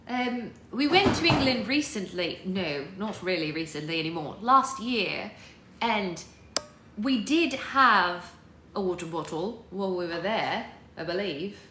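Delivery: chatty, measured British accent. Shown as a demonstration. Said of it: "in a British accent".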